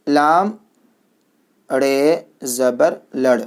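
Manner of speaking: slow, deliberate letter-by-letter spelling; teacher dictating letters slowly; slow spelling drill. Shown as a demonstration. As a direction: call out each letter clearly for children to repeat.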